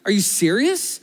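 imitating a fed-up God; exasperated. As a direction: tick off the list, rising to an exasperated question. Exasperated God answers the man.

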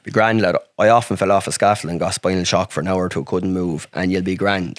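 put-on a light rural Irish country accent, easygoing. Decky reassuring his injured friend, in a lightly done rural Irish country voice. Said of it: "you know, country voice".

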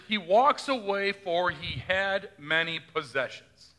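slow, measured reading of scripture. Shown as a demonstration. Pastor quoting the Gospel to the congregation, slow and measured. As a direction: read it slowly like the text of Scripture. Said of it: "but he do hear in Scripture".

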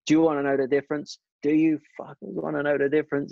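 American team boss losing patience with the engineers; heated American accent. Retold or imitated. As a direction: demand it in a rough American accent, getting angrier. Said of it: "I won't do the accent 'cause I'm crap at accents".

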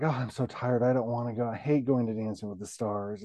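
soft, low mock grumbling; weary complaint. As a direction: imitate a tired complaint, quietly. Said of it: "complaints like".

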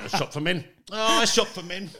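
high, mincing camp voice, giggling; lightly camp it up for a laugh; camp mock voice. Mocking the shop name in a high camp voice.

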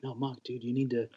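softly, half under the breath; quiet retold aside to a friend. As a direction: tell him gently, keeping it quiet. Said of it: "I kinda was quiet".

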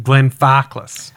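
slow, lightly Australian Glenfarclas; bad Australian accent. Shown as a demonstration. Host mocks her own horrible Australian accent on Glenfarclas. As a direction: drag out Glenfarclas in a half-hearted Australian accent. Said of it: "in my horrible Australian accent".

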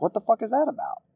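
venting disbelief at the rule; exasperated. Real, not acted. Ranting podcaster venting about Olympics rules, exasperated.

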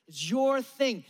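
is YOUR thing, slow with a falling end; stress on your. Acted. Preacher to the congregation, slow stress on YOUR. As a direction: lean on YOUR and let it drop. Repeated refrain.

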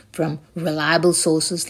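"reliable sources" said slowly, each word given weight; stressed phrase. Shown as a demonstration. Vlogger covering himself on a news claim, stressing "reliable sources". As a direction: lean on "reliable sources", slow and deliberate. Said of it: "I need to say reliable sources".

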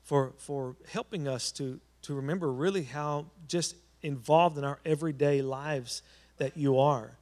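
earnest pastor's prayer voice. Acted. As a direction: pray it aloud for the whole church. Leads a congregational prayer.

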